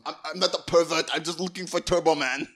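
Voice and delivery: lightly voiced, suggestive movie dad; creepy euphemism reading. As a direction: lean on it like a dirty euphemism. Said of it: "it sounds like a disgusting euphemism".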